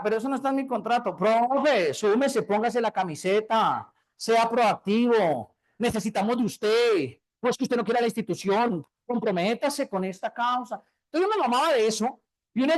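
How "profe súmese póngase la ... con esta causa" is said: slow, drawn-out pep-talk pressure; mock school boss rallying the teacher, slowly; preachy coworker. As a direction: lay on the corporate guilt trip. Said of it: "que me dijeran".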